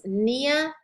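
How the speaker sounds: "neotomtosis" as three separate suffixes, nee-a, tom, toh-sis, no P; silent P. Shown as a demonstration. Teacher recapping three suffixes, silent P. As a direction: say "neotomtosis" in spaced parts, each without a P. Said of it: "the P in the front, you pronounce the T".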